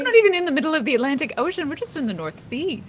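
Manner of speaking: loud, high, rapid protest; exasperated. Acted. Crew member rebutting a passenger's Titanic fear, exasperated. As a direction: shoot down the silly fear loudly.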